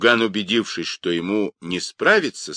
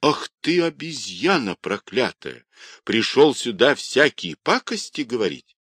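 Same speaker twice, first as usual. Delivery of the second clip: higher-pitched scolding, restrained volume; furious cry; 5 semitones higher than usual. Acted. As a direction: scold with a touch of fury. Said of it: "в бешенстве крикнула".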